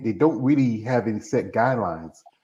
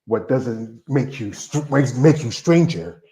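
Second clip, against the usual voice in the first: slow saying; slower than usual. Retold or imitated. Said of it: "He says this".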